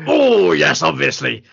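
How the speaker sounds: lightly hammed-up posh English accent; mock upper-class English accent. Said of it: "I think Prince Adam goes".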